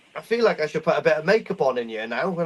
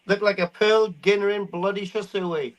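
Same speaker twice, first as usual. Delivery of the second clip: laughing; 3 semitones higher than usual. Real, not acted. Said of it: "I've never seen one of those before".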